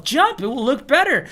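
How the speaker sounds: retold call to a group. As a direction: call out a helpful suggestion. Repeating himself, calling to the group.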